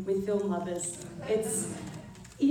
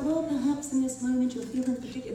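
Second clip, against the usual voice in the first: mock fussy director; 4 semitones higher than usual. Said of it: "There was none of that".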